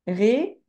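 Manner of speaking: "Ré-pé-té" in separated beats, each a clear é; syllable by syllable. Shown as a demonstration. Teacher shows pupil where accents go, demonstrating each syllable. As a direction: spell out "Ré-pé-té" by sound, pausing between syllables. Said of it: "sur le deuxième aussi".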